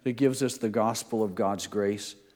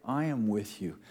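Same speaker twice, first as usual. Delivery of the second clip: tender reassurance; 4 dB quieter than usual. Acted. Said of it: "God's telling his children".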